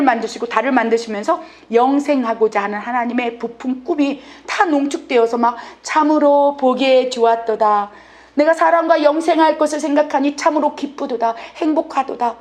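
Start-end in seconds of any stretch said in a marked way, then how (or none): 5.8-12.4 thrilled anticipation. Acted. God delights in living forever with people, thrilled. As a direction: savour it with understated excitement. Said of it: "설렘이 가득 담겨져 있는데".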